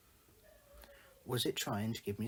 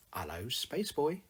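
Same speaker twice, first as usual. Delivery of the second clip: slow, louder sing-song greeting, pitched up; loud, higher sing-song greeting; a singer, clipped sing-song; 4 semitones higher, 5 dB louder, slower than usual. Acted. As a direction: draw out a clipped, lilting cartoon hello. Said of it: "in that clipped sing-song voice of his".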